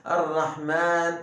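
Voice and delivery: Errahman with the a held long; slow drawn vowel. Shown as a demonstration. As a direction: stretch the a of Errahman. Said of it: "Burada uzatıyoruz".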